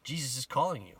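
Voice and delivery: high, projected calling voice; retold call. Crowd calls the blind man to Jesus, retold call. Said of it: "So they called to the blind man".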